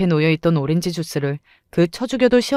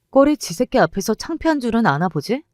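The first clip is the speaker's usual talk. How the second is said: higher, sneering jab; sneering mockery; 5 semitones higher than usual. Mother sneering at her rival in front of the rival's son. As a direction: needle her with contempt.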